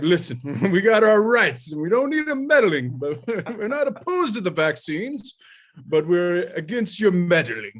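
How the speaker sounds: high, loud, laughing Southern orator; proper Southern accent. Retold or imitated. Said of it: "a really proper Southern accent".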